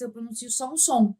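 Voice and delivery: usual speaking voice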